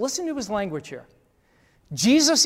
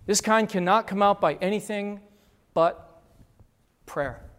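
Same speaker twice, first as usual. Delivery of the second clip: sincere true verse. Shown as a demonstration. True verse after mocking versions.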